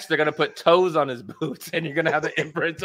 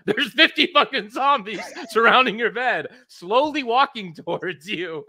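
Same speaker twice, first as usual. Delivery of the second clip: laughing while talking; 6 semitones higher, 4 dB louder than usual. Real, not acted. Laughing through the zombie scene.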